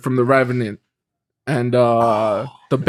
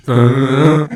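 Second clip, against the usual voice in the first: louder mock chant hum; imitated crowd hum; 6 dB louder than usual. Whole crowd starts doing it, louder imitated hum. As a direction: hum it loud, like a crowd joining in. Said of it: "the whole crowd starts doing it".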